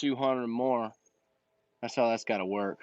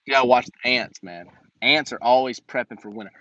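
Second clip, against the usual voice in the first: usual speaking voice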